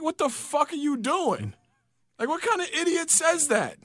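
mock disbelief at a dumb remark; baffled outrage. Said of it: "I'm like".

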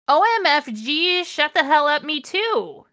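high, loud fangirl squeal; mock shriek. A narrator's reading. Reader voicing the gushing goth heroine, high and loud. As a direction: squeal it out like an excited teen. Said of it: "I shrieked".

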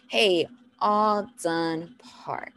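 slow, even and unruffled; patient, drawn-out instruction; calm parent cue. Shown as a demonstration. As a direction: keep it calm, word by word. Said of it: "you gotta stay calm".

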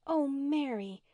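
high, drawn-out plea; hurt pleading. A narrator's reading. Una reaches out to angry Mary, pleading. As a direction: plead with her, pitched well up.

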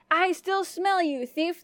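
a mild storybook giant yell. A narrator's reading. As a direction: draw it out like a hunting giant. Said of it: "the giant yelled".

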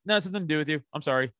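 brief, casual brush-off with an apology; short, not rude. Shown as a demonstration. Telling the wife it doesn't concern her, short but not rude. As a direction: reenact a curt but civil dismissal. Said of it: "kinda like that".

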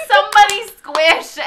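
high, loud, stretched-out plea; mock frantic scream. Student begging anyone to squish spider, mock frantic scream. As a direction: shriek for help, hammed-up.

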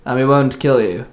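loud, drawn-out demand, then easing; barked threat. A narrator's reading. Assassin demands the song from the queen, barking. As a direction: bark the opening demand slowly. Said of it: "the assassin barked".

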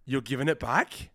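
slow, rising, disbelieving question; incredulous question. Retold or imitated. The mum as he hands the hat back, slow and incredulous. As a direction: drag it out as if you can't believe it. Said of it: "Like that".

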